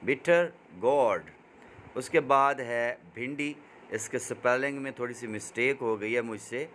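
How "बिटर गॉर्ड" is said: Bitter गॉर्ड with only a faint R in गॉर्ड; light R sound. Shown as a demonstration. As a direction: say गॉर्ड with the R barely touched. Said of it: "आर की आवाज़ थोड़ी सी निकालेंगे".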